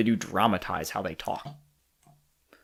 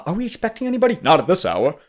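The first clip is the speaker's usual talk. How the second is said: stilted, higher and louder mock read; mock self-narrating dialogue; 8 semitones higher, 5 dB louder, faster than usual. Mocking stiff podcast dialogue to a co-host, hammed-up stilted read. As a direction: parody the wooden over-explaining actors. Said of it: "It sounded very anime-esque, very self-narrative".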